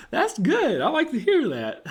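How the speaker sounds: high falsetto mock delight. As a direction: squeal it like a giddy fan, with a laugh. Mock reaction to read-out comment.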